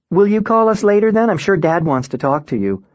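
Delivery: a touch of an anxious mother; hint of mother. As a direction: mom pleading gently on the phone. Mother on phone, voiced by narrator.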